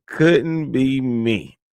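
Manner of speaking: slow, drawn-out dismissive couldn't be me. Real, not acted. Scoffing at the crying woman, slow and dismissive. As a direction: drag it out, shaking your head at her.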